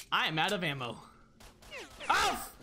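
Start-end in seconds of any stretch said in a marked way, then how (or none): 2.1-2.5 high, playful dared oof; mock-hurt high yelp; high-pitched oof. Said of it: "say oof in a high-pitched voice".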